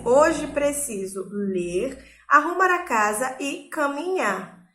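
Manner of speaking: slow, pausing between each item; list with pauses. Shown as a demonstration. Teacher reading a list, pausing at each comma. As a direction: mark every comma with a beat. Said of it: "separar elementos de uma sequência".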